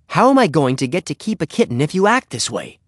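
exasperated, high-pitched scolding; stern. A narrator's reading. Henry scolds the dog endangering his kitten plan, sternly. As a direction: plead crossly with a misbehaving pet. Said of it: "he said sternly".

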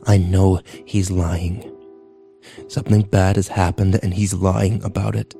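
low, slow, subdued insistence; tearful conviction. A narrator's reading. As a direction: hold back tears, speaking low. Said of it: "I heard more sniffling".

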